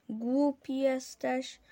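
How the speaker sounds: slow, mildly annoyed retort; snapping at a friend. Acted. Boy with a broken leg scolds his friend, slow and mildly scornful. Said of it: "prasnął Paweł".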